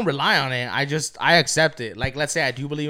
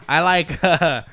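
laughing; 4 semitones higher, 5 dB louder than usual. Real, not acted. Laughing recounting.

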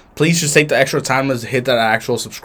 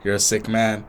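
retold giving in; 2 semitones lower, 6 dB quieter than usual. Imitating Craig giving in to drunk friend, quiet reply. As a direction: drop down softly as the friend relenting.

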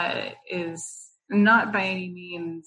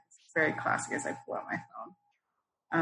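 whispered aside; 7 dB quieter than usual. Real, not acted. Aside while grabbing her phone.

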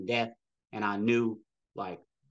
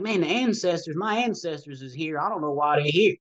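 higher-pitched, amazed retelling; retold astonishment; 5 semitones higher than usual. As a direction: recount your own bewildered reaction in a raised pitch. Retelling his startled reaction to vision.

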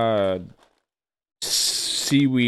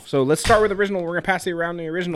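loud sharp voice; 5 semitones higher, faster than usual. Real, not acted. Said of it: "Why are you screaming at me?".

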